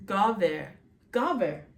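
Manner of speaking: GA, VER with an open 'ah' then 'eh'; Hebrew vowel demo. Shown as a demonstration. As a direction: sound out GA, VER in two clear syllables. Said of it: "bottle sound, so ga".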